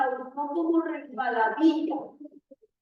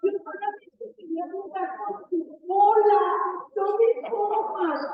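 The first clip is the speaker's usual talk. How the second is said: pleading mouse; 2 semitones higher than usual. Acted. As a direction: beg the lion like a scared little mouse. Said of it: "el ratón le dijo al león".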